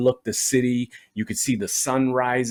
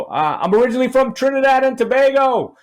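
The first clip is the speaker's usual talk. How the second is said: higher, louder, carefully polite reply; mock polite answer; 12 semitones higher, 4 dB louder than usual. Comedian answering the drunk stranger, mock polite and higher. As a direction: answer like you just want to keep things moving. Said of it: "So I go".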